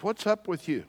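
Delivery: mildly exasperated king questioning his servant; mock exasperation. Acted king confronting ever-positive servant.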